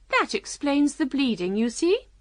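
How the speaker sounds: high, smiling Queen. A narrator's reading. Queen explaining the bleeding to Alice, smiling. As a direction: explain it with a smile. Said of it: "said to Alice with a smile".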